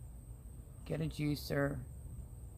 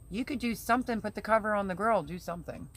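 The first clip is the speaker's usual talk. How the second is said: exasperated; 5 semitones higher, faster than usual. Real, not acted. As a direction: snap at him to help out. Venting at lazy husband.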